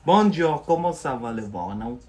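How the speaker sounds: loud cheery Bonjour, French sounds; French greeting. Real, not acted. Teacher greeting viewer Livorno loudly in French. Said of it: "I spoke in French".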